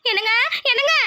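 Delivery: worried call to a husband; calling out anxiously. Acted. Wife comes looking for her husband, calling out anxiously. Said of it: "மதனி கத்திக்கிட்டு இருக்க மாதிரி இருக்கு".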